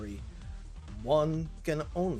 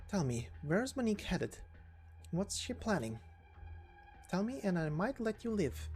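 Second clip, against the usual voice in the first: higher-pitched, toying threat to a captive; menacing interrogator; 5 semitones higher, 3 dB quieter than usual. Acted. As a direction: question them with a lightly veiled threat.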